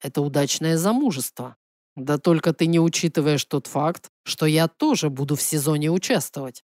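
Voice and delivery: measured, low-pitched male character pressing his claim; властный принц. Acted. Voices the prince in dialogue. (слегка пониженный голос настойчивого принца)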